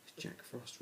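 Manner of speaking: a frightened breathless whisper; gasped. A narrator's reading. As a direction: gasp it out in alarm, barely voiced. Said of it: "Ruby gasped".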